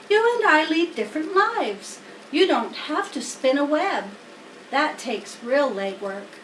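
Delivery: gently setting the pig straight; Charlotte the spider. Acted. Charlotte to Wilbur, lightly voiced wise spider.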